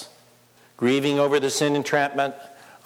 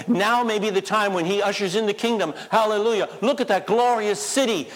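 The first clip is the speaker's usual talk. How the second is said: excited crowd; 6 semitones higher than usual. Retold or imitated. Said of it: "so pumped and so excited".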